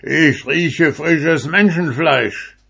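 high, loud, slow giant roar. A narrator's reading. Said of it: "und brüllte".

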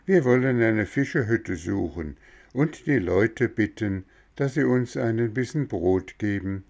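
tired father hoping for bread and a bed; old father. Acted. Voices the father Seppel.

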